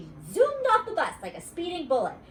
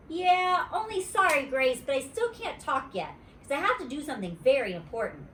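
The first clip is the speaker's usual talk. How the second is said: put-on little girl voice; 5 semitones higher than usual. Junie B voice.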